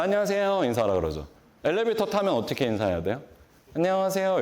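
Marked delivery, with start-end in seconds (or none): 0.0-0.6 bright, higher hello with a smile; smiling greeting. Shown as a demonstration. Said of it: "웃으면서". 3.7-4.4 bright, higher hello with a smile; smiling greeting. Shown as a demonstration. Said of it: "이렇게 인사해야죠".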